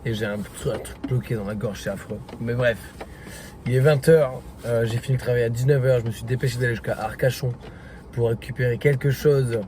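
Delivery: swollen tonsils voice, hoarse; talking through a painful sore throat. Real, not acted. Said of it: "je suis désolé si la lumière est pas bonne et ma voix non plus".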